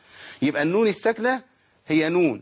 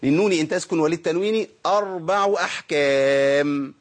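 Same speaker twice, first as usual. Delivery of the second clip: slow measured recitation of the verse; reciting the text; slower than usual. Acted. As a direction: recite the line slowly like memorized text. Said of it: "قال إيه؟".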